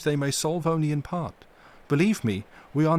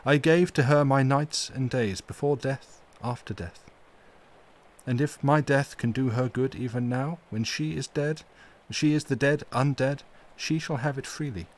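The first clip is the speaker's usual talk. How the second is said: full of pity; 3 semitones higher than usual. Acted. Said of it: "with an accent full of pity".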